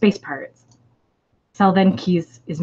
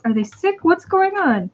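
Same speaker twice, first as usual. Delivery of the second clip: panicky alien; 11 semitones higher, 3 dB louder, slower than usual. Acted.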